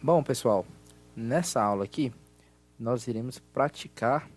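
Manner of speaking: loud, projected teacher voice; class lesson voice. Acted. Teacher runs a recorded grammar exercise, loud and projected.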